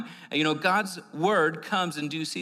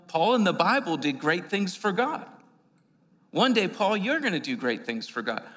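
louder, preached restatement; louder re-quote; 3 semitones higher than usual. Retold or imitated. Preacher repeating the stranger's word to the congregation, louder. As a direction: proclaim it to the church. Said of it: "It was like".

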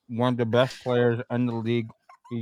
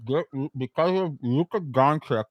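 garbled through a mouthful of candy; mouth full; 3 semitones higher, 4 dB louder than usual. Real, not acted. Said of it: "I can't hear you. You need to enunciate better".

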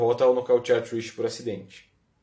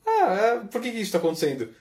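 Jerry Lawler impression; 6 semitones higher than usual. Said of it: "O Jerry Lawler fala isso".

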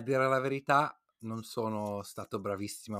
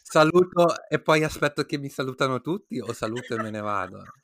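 anxious panic; 4 semitones higher, 10 dB louder than usual. Retold or imitated. Anxious about leaving a group.

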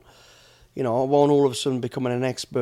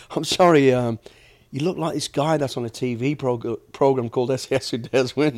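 lightly imitated Irish accent; 3 dB louder than usual. Huge stranger recognizing him from TV, in a light Irish accent. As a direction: retell it with a hint of Irish. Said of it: "he had an Irish accent".

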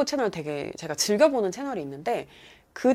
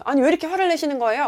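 fast, high mock protest; hypothetical affronted challenge; indignant retort; 8 semitones higher, 4 dB louder, faster than usual. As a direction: act out snapping back defensively. Imagined confrontational reply from driver.

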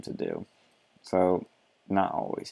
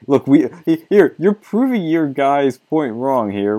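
laughing protest; 5 semitones higher, 8 dB louder, slower than usual. Real, not acted. Laughing rebuttal of the author.

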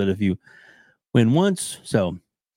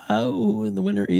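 rising excited reveal, pitched up; hyped giveaway announcement; 9 semitones higher than usual. Acted. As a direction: build up the winner reveal.

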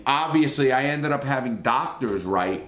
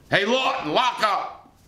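higher-pitched imitation of a guard's order; mock guard's call, pitched up; 8 semitones higher than usual. Guard ordering an inmate to lock up, imitated calling out. Guard calls out after banging on door.

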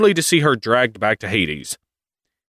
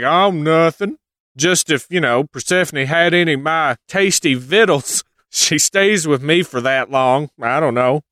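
higher, fake-innocent sly voice; innocent Hades; 5 semitones higher than usual. Hades feigning innocence about the food rule, lightly higher. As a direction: play dumb with a smirk. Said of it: "he's like".

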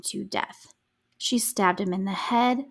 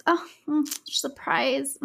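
sarcastic mock surprise; 5 semitones higher, slower than usual. Real, not acted. Mocking Jeff's hobbies.

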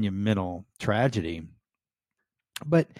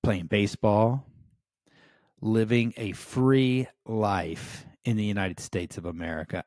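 defiant. Retold or imitated. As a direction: say it like a challenge to the enemy. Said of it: "as to say".

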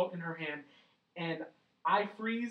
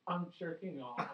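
sheepish, softer confession breaking into a laugh; ashamed; 5 dB quieter than usual. Retold or imitated. Retelling his confession to his half-asleep girlfriend, sheepishly ashamed. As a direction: confess it softly, imitating your own shame. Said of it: "so ashamed".

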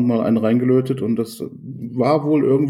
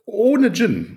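high, incredulous echo; can't believe it, asking back; surprised; 10 semitones higher than usual. Real, not acted. Incredulous echo of friend's drink.

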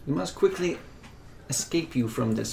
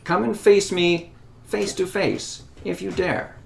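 defiant retort; 3 semitones higher than usual. Acted.

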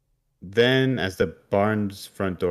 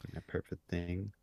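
whispered dark punchline; ominous whisper; 12 dB quieter than usual. Acted. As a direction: breathe it out like a creepy reveal.

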